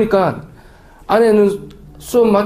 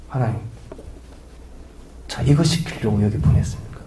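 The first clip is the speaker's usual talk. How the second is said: grumbling prayer; 6 semitones lower, 6 dB quieter than usual. Retold or imitated. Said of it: "마음의 불평이, 원망이".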